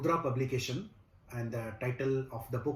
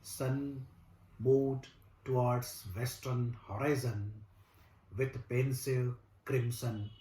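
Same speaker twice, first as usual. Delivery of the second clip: slow, measured recital with long pauses between phrases; poem recitation; much slower than usual. Acted. Recites his own poem.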